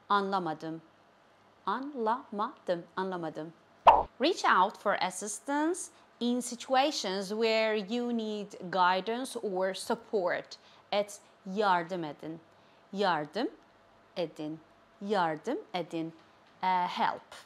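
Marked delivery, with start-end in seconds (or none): 1.7-2.9 slow "Anlamadım", split an, la, ma, dım; syllable by syllable. Shown as a demonstration. Teacher teaching "Anlamadım" to learners, slowly syllable by syllable. 12.9-16.1 "Yardım", clear pause, then a softer "edin"; word by word. Shown as a demonstration. Teacher breaking "Yardım edin" for learners, word by word.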